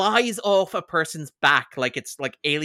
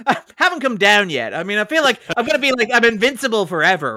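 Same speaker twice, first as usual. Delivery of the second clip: higher and louder, racing through as if wired; mock coked-up high; 6 semitones higher, 7 dB louder than usual. Joking to co-host he's still high, mock wired. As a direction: ham up being high and unstoppable.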